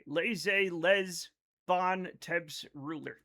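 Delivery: slow French in a plain American accent; own American accent. Shown as a demonstration. Streamer reading chat's French, resigned American accent. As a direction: anglicize every French word, American accent. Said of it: "read things in my accent now".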